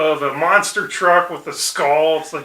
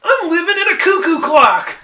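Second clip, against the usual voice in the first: high, loud cartoon outcry; quoted cartoon line; 12 semitones higher, 6 dB louder than usual. Homer baffled at dinner by accents, mock outcry. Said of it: "my line number two is".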